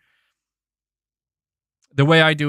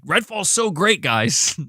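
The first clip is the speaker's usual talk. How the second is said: sarcastic praise; 4 semitones higher, slower than usual. Pretend. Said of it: "Be like".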